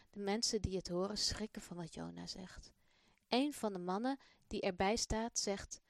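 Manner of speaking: put-on expressive storybook reading for children; children's story voice; story narration. A narrator's reading. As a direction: tell the story warmly to young listeners. Reads the Malik story aloud.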